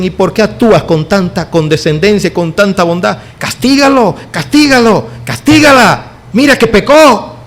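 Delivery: a hint of a harsh, rising demand; self-righteous churchgoer. Strict church member urging punishment of a sinner, mock harsh demand. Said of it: "hay gente tan justa... dicen".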